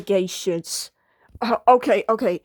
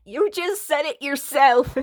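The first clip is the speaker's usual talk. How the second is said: laughing; 4 semitones higher than usual. Real, not acted. Laughing at her mistake.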